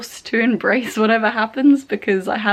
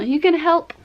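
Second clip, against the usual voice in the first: higher-pitched coaxing; sweet-talking, lifted voice; coaxing question; 7 semitones higher than usual. Real, not acted. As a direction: ask a little companion, pitched up. Talking to someone to snuggle with.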